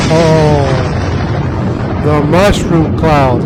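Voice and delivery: loud, slow and wide-eyed; awed gasp. Real, not acted. Vlogger watching explosion video, loud and awed. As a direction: let it land, amazed at the blast.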